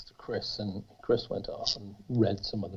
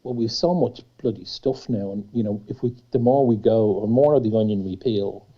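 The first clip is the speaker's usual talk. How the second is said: louder, worked-up explaining; loud animated quote; 6 dB louder than usual. Retold or imitated. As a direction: push through rising frustration. Retold frustrated planning talk.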